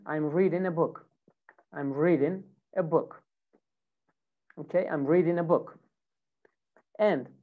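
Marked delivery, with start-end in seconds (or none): 0.1-5.8 "reading" said as readin', no g; "reading" American style with the G dropped. Shown as a demonstration. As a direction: say "reading" ending in a plain n. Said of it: "you remove the G sound".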